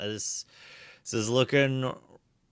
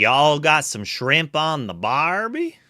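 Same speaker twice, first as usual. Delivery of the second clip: mock Southern-Australian accent; 4 semitones higher, 4 dB louder, slower than usual. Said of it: "That was pretty good".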